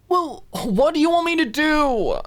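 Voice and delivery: high, loud defensive cry; defensive exclaim. Acted. Alicia snapping back at Mona from her blankets, high and loud. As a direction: throw the question back, hurt and defensive. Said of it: "Alicia exclaimed defensively".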